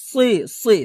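সি with a thick s; emphatic sad in সি; heavy sad sound. Shown as a demonstration. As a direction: make the s in সি full and emphatic. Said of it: "সদ একটু মোটা হবে".

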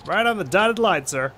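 bright, pushy salesman pitch; eager petitioner voice. Acted. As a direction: sell the petition with fake cheer. Petitioner answers.

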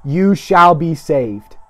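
slow, weighty Bible reading; scripture reading. Real, not acted. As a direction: proclaim the verse phrase by phrase, drawing out the ending. Reads scripture aloud.

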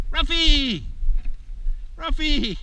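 high, loud praise and calling; excited praise. Real, not acted. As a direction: cheer and call the pup in.

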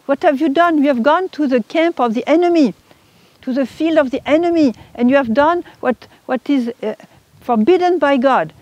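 imitating a stern spiritual scolding; blunt rebuke. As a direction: confront the wrongdoer without politeness. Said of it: "is not a matter of politeness".

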